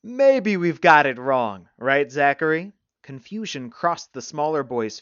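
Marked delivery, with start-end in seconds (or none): 0.0-2.7 slow, loud, falsely friendly suggestion; assumed friendliness. A narrator's reading. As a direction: draw it out with fake friendliness. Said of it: "assuming a friendly tone".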